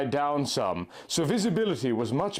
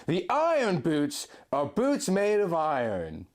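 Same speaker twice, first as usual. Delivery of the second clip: Link, tender guide; 6 semitones higher than usual. A narrator's reading. Link guiding his love through the blizzard, high and gentle. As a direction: lead her by voice through the snow.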